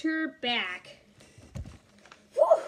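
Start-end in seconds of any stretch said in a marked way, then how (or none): 2.3-2.6 high, loud cry of disgust; cried out. A narrator's reading. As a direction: shriek it out at the stink. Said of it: "she cried".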